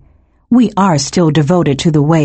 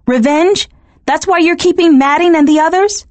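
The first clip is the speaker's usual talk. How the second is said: higher, pressing, indignant questions; angry rising accusation; angry demand; 9 semitones higher than usual. A narrator's reading. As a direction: challenge him, pitch climbing in disbelief. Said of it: "I grew angry myself".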